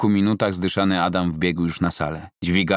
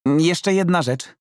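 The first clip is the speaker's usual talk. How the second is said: higher and slow; drawing out a awkward request; Roman, hesitant; 11 semitones higher, 3 dB louder, slower than usual. Acted. Roman changing the subject with his coach, high and slow.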